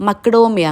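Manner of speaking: മക്ഡോമിയ said slowly and carefully, each syllable spelled out, unsure of the name; careful pronunciation. Shown as a demonstration. Showing viewers the snack, carefully says മക്ഡോമിയ. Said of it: "അങ്ങനെ ആണെന്ന് തോന്നുന്നു correct pronounce ചെയ്യുന്നത്".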